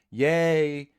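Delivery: moderated excitement. Shown as a demonstration. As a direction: hold the excitement to a measured level. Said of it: "I will moderate my excitement".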